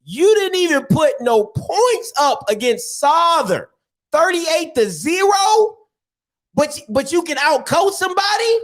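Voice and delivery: high, half-sung jeer at the shutout. Real, not acted. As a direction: belt it out like a taunt from the stands. Mocking the rival's shutout loss.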